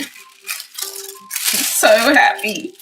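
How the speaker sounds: tearful, dreamy happiness; overjoyed. Real, not acted. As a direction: savour each so, overcome with joy. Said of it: "I am so, so, so excited".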